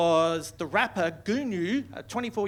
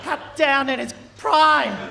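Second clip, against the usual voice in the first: hammed-up mourning, slow on the last line; mock grieving; much slower than usual. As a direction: fake lament. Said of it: "everyone's crying, going".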